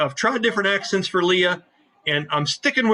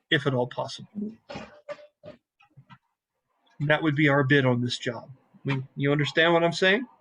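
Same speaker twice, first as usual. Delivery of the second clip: Aeolus, sly captain. Acted. GM voices Aeolus NPC.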